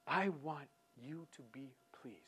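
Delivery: soft whispered plea; hushed whisper; whispered prayer. Retold or imitated. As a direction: breathe it as a private prayer.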